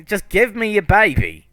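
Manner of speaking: high, loud monster voice; high, pushy creature demand. Acted. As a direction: insist on the baby as the monster. GM speaks as creature.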